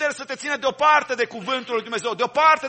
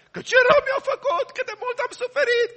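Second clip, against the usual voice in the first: high, shouted self-pitying wail; mock the grudge-holder crying out their hurt; hammed-up cry of a wounded believer; offended wailer; 12 semitones higher than usual. Acting an offended, grudging person.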